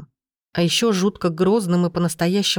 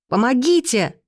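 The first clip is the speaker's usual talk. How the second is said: desperate shout for help; 6 semitones higher than usual. A narrator's reading. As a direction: yell for help with all your might. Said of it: "закричала я так громко".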